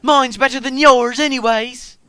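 put-on high, loud childish bragging; proud boasting. A narrator's reading. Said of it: "Mike was proud of his shrill whistle".

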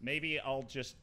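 low, soft self-talk; muttering to oneself. Real, not acted. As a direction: think aloud under the breath, low and hushed. Mutters to herself alone while playing.

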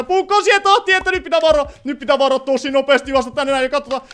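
high, loud, breathless-paced running commentary; urgent alarm. Real, not acted. Player warning that knives are flying, urgent alarm. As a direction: cry out a warning while dodging.

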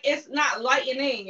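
lightning said as light-e-ning, three syllables; lightning with an extra E sound in the middle; wrong pronunciation. Shown as a demonstration. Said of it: "it is not like".

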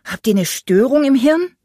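high, loud exasperated jab. A narrator's reading. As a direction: fire it at the stupid machine. Furious caller insults hotline.

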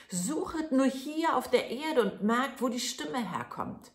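put-on high, bright little boy's voice; lightly high, eager little lad; tiny Daumestick. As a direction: voice the thumb-sized hero. Daumestick's voice in the tale.

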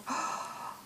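a soft breathless gasp of delight. Real, not acted. Opening a parcel from a friend, soft delighted gasp. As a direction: gasp at the sight of the gift. Unboxing crochet gifts, delighted.

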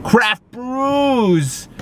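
high, drawn-out mock battle cry; playful cheer. Vlogger hyping his beer plans to viewers, playful cheer. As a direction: call it out loud and silly.

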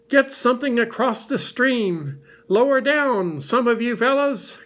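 high, urgent shouted orders; crying out. A narrator's reading. Rabbit directs the rescue downstream, crying out. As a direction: call orders out to the helpers. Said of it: "cried Rabbit".

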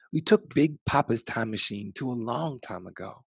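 plain reading voice

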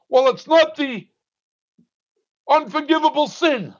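lightly voiced dismissive opponent; mock objection. Preacher mimicking his opponent's diverting argument, mildly dismissive. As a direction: toss it off like a weak excuse. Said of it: "a diverting argument".

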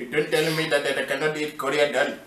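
put-on Indian accent.

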